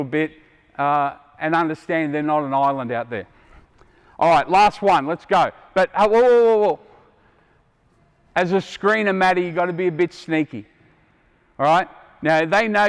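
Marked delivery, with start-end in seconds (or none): 6.1-6.8 stopping play. Real, not acted.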